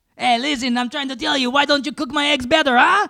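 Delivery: put-on French accent. Told that your Napoleon sounded Mexican, try again to show it is French, in a French Napoleon voice.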